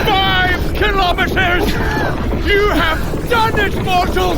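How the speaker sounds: high, bright cheering for the runner; triumphant rallying call; excited cheer. Acted. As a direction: cheer them over the finish line.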